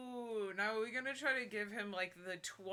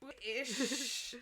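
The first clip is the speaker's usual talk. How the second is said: high mock British accent; 5 semitones higher than usual. Riffing on the villain's nationality, mock British accent. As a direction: exaggerate the British pronunciation. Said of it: "Tuesday British accent".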